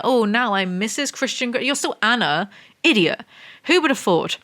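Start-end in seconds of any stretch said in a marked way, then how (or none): 0.0-1.6 mocking quote. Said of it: "Why do people do that?".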